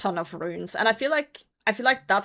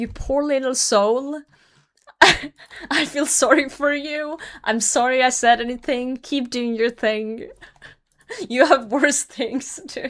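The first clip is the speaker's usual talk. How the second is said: patronizing, pitying, condescending sympathetic tone; 4 semitones higher, 4 dB louder than usual. Retelling how a stranger's encouragement sounded: imitating a pitying tone. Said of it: "the way he said it was like".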